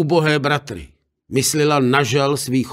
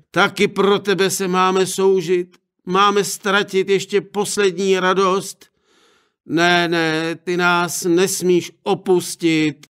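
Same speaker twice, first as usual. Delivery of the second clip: higher, grieving pleading voice; a touch of grief, higher; lamenting parents; 5 semitones higher than usual. Acted. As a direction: parents begging her to stay. Parents lament daughter's leaving.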